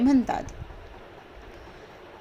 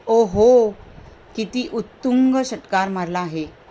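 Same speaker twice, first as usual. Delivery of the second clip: excited; slower than usual. Shown as a demonstration. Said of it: "आपण एकदम excited होतो".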